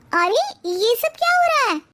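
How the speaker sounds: high, startled cry of disbelief; shocked exclamation. Acted. Wife startled to find husbands in sarees, shocked. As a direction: gasp out the question in shock.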